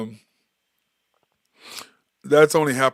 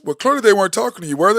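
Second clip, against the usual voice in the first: dad's wry question; 6 semitones higher, 4 dB louder, faster than usual. Retold or imitated. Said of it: "he goes".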